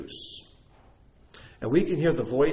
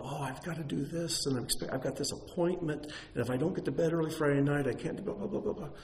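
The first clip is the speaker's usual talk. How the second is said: excuses voice; 5 semitones higher, 3 dB quieter than usual. Retold or imitated. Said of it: "all these arguments come up".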